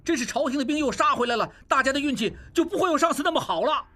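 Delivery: a brother urging his uncle to flee; panicked urging. Acted. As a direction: rush the warning, climbing in alarm. Panicked brother urges fleeing.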